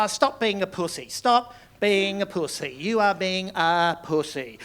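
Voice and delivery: slow, deliberate telling-off; firm scolding. Retold or imitated. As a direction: drag it out as a stern rebuke. Acting friend's firm reply to excuses.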